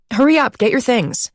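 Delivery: urgent. A narrator's reading. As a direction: urge her to hurry up. Rushing friend off the train.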